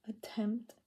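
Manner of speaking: whispering. Real, not acted. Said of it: "I'm using my whisper voice".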